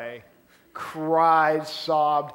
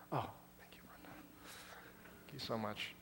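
real whispered aside, much softer; whispered thanks; 5 semitones lower, 19 dB quieter than usual. Real, not acted. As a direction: murmur the thanks off-mic, under your breath.

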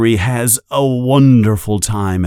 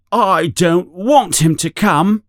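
much higher spoiled whine; whiny boy; 9 semitones higher than usual. A narrator's reading. Dudley protesting to his parents, whiny. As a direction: complain like a brat.

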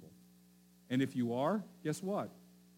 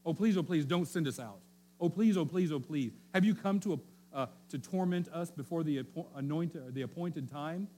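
mock-pleading demons, higher and louder at each "please"; begging demons; 3 semitones higher, 4 dB louder than usual. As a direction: beg like a cornered demon, half in jest. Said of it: "the demons in-, beg him for, for gentleness".

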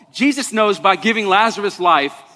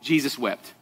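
soft, low "Jesus wept"; "Jesus wept" dropped to a near hush; quiet and solemn; 7 semitones lower, 9 dB quieter than usual. Shown as a demonstration. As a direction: say it hushed, with weight. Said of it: "the shortest verse in the Bible".

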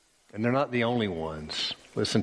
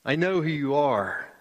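surprised realization, a touch higher; 5 semitones higher than usual. Acted. Demons recognising Jesus, mildly surprised. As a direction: catch them off guard knowing his name. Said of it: "a tone of surprise in their voice".

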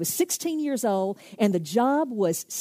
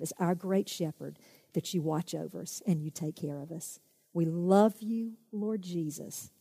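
closing prayer. Acted. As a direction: pray gently over the listeners.

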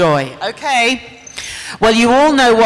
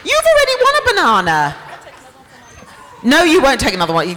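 high, fast laughing scold; laughing tease; 5 semitones higher, much faster than usual. Real, not acted. Host laughing as he shoos a fan off stage.

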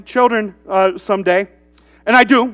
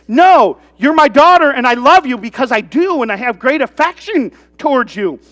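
affectionate love; 2 semitones higher than usual. Acted. Father telling his daughter he loves her, affectionate. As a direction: insist fondly, easing off toward the end. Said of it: "It's not obligation love".

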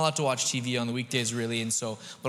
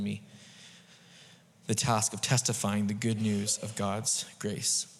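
slow solemn reread; 3 semitones lower than usual. Shown as a demonstration. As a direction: read it again slowly, with reverence. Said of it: "I want to read it one more time".

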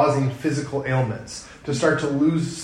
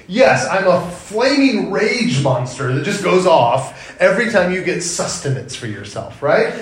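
sarcastic. Pretend. Sarcastic self-mockery.

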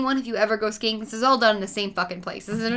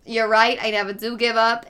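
hint of a Bronx accent; lightly voiced Bronx accent; 3 dB louder than usual. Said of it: "a Bronx accent now".

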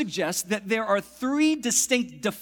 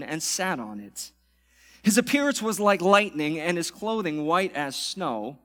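measured, solemn scripture reading. Acted. Pastor reading scripture to church, solemn.

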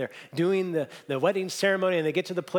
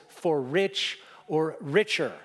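slow, defiant repeat of the vow; slower than usual. Retold or imitated. Groom defiantly answering the pastor, slow and stubborn. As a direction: dig in and say it slowly, daring the pastor. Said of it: "kinda defiantly now looks at him and says".

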